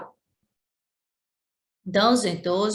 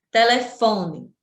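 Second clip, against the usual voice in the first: Telefone said slowly, with fo as the strong syllable; slow classroom demo of Telefone, stressed on fo; stress on penultimate syllable; slower than usual. Shown as a demonstration. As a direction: sound out Telefone, leaning on fo. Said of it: "fó é a tônica".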